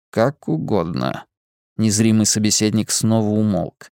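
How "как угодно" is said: mysterious man. Acted. Lazarus indifferent.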